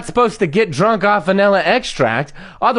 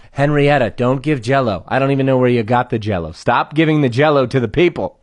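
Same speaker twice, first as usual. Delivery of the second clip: lower-pitched, exasperated reprimand; weary mock scolding; 6 semitones lower than usual. Boss to eighty-year-old barista handing out Jell-O, weary mock scolding.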